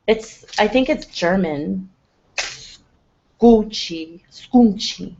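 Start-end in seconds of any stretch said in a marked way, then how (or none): 3.4-5.1 Gucci Scunchi with a mock Italian ring; mispronounced scrunchie. Shown as a demonstration. Showing viewers how to say Scunchi, playful mock Italian. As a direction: say Scunchi like a posh Italian brand. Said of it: "that's how you pronounce it".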